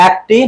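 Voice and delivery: একটি starting on an open "ae", like "aekti"; wrong open vowel. Shown as a demonstration. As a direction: mispronounce একটি as "aek-ti". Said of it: "আমরা কখনো বলি একটি না".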